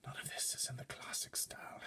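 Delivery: a fussy butler's disapproving hush; whisper. A narrator's reading. Butler surveying furniture, whispering disapproval. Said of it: "he whispered".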